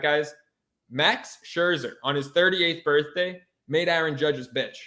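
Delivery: normal talking voice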